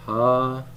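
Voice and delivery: "Ha'adam" broken into ha, ah, dahm with long gaps; syllable by syllable. Shown as a demonstration. Teacher writing it down in Hebrew, "Ha'adam" one separate syllable at a time. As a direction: say "Ha'adam" piece by piece, pausing between syllables. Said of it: "I'll write it down here".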